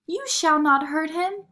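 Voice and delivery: high, loud defiant cry; defiant girl. A narrator's reading. Marie defying the Mouse King, high and loud. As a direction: stand up to the king. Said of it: "cried Marie".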